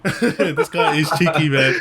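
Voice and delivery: slow words through a laugh. Real, not acted. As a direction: chuckle while saying it. Host laughs at the guest.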